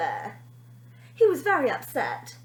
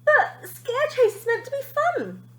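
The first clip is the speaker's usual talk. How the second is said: inner thought; 13 semitones higher, 5 dB louder than usual. A narrator's reading. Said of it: "he thought".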